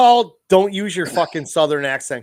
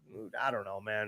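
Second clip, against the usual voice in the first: quoting himself; 8 semitones lower, 15 dB quieter than usual. Retold or imitated. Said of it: "I'm like".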